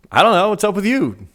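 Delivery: high, loud, cheeky brother; mock innocent kid voice; smart aleck. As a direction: toss it back sassy and high. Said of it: "he's a smart aleck".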